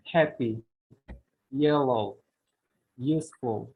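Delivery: HAP-py, YEL-low, USE-ful, each falling after the first; first-syllable stress. Shown as a demonstration. Teacher giving examples, first syllable stressed in happy, yellow, useful. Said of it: "stress on the first syllable".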